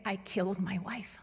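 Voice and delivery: hushed, breathy confession; retold whisper. Telling how the cab driver whispered his confession, whispered. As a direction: whisper it like a guilty secret.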